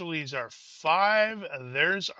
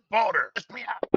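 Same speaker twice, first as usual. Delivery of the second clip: pleading soldier; 7 semitones higher than usual. Retold or imitated. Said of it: "he's like".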